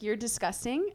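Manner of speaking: contained, matter-of-fact insult; not yelling. Retold or imitated. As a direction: condemn him without raising the voice. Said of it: "I said it not yelling".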